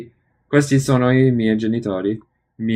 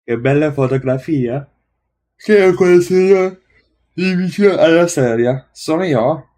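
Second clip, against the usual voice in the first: higher, louder role voice; raised-pitch dialogue voice; 6 semitones higher, 5 dB louder than usual. Acted. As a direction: lift the voice for the other speaker. Repeating dialogue, second speaker role.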